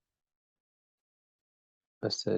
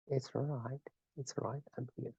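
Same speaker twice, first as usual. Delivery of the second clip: hushed whisper, softer and softer; soothing whisper; 4 semitones higher, 13 dB quieter than usual. Shown as a demonstration. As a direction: whisper gently like lulling a baby. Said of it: "soothing a baby".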